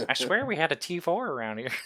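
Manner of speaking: high, fast, laughing panic of someone searching; mock frantic search. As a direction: play the crewman scrambling for his stash.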